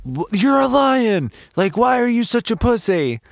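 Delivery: put-on disbelieving kid scolding the lion; child watching the movie, baffled by the lion; exasperated kid. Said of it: "I was like".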